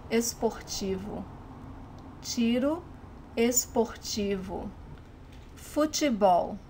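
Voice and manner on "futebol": Futebol with te softened to chee; standard pronunciation. Shown as a demonstration. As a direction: say Futebol as "foo-chee-BOW". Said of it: "they pronounce futebol".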